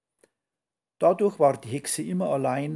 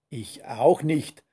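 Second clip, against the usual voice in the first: put-on slow, louder grumble from the old witch; grumbling witch; 5 dB louder, slower than usual. Grumpy witch answers the skunk, slow grumble. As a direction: grumble it out slowly. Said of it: "brummte die Hexe".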